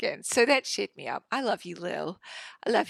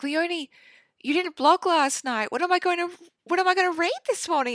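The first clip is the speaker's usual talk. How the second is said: higher, lightly voiced complaining assistant; mock pleading coworker; 9 semitones higher, 5 dB louder than usual. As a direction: playfully whine like a fan at work. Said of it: "she was like".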